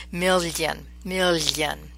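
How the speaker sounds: "Million, million" with a wet, lingering lly; juicy ly sound. Shown as a demonstration. Teacher showing juicier Italian sound, palatal ly. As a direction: press the tongue into the middle of "million", juicy glide. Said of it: "I would say juicier in Italian".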